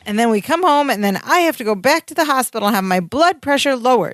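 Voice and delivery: a touch of exasperated panic; retold panic. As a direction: get lightly worked up, pitch lifting. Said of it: "He's panicking".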